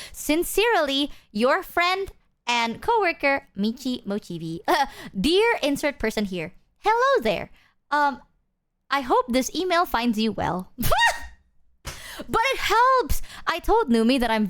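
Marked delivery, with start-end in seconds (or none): 0.1-10.7 lightly voiced stiff office politeness, slowed a little; a hint of a polite coworker reading an email; corporate email voice. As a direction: read it like a formal work email sign-off. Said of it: "the corporate ass response".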